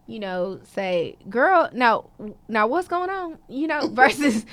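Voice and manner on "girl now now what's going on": a hint of casual slang with a friend; slangy friend chat. Shown as a demonstration. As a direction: lightly show friend talk. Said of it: "I may use slang".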